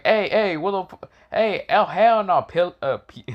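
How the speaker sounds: high-pitched mock outrage; indignant outburst. Slick objects as his son gets grabbed, indignant. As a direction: play an alarmed protest, voice jumping up.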